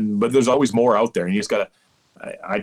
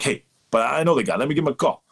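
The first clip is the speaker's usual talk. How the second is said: lightly imitated accent of an umpire colleague, pitched up; Phil Cuzzi accent; 5 semitones higher, faster than usual. Umpire retelling his foodie colleague's offer to phone, light mock accent. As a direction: put on a colleague's accent, a little higher. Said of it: "that's my best Phil Cuzzi accent".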